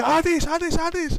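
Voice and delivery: high calls to get someone's attention; high, insistent mock calling; mimicked name-calling. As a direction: imitate trapped friends calling out. Imitating friends calling his name.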